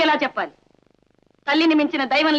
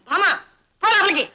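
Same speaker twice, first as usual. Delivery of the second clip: angry order; 5 semitones higher than usual. Acted. Father orders daughter inside.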